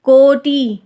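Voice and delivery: कोटि said with a long ई, the wrong way; wrong long vowel. Shown as a demonstration. Teacher shows the wrong spelling sound of कोटि. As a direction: stretch the end of कोटि as a long ई. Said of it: "हम इसको बड़ी".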